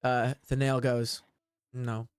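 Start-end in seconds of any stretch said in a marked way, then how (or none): 1.7-2.1 lightly voiced elf, lower and halting; wood elf, pondering. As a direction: think aloud in a lowered character voice. Voices the wood elf considering the tracks.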